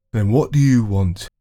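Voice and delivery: challenging. Acted. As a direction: press her for an answer.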